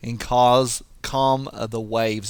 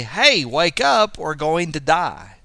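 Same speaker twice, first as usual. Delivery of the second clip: urgent higher-pitched wake-up call; acted alarm, drawn out and raised; panicked disciples; 4 semitones higher, 5 dB louder, slower than usual. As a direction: rouse a sleeper in mock panic. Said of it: "They're coming to Jesus to say".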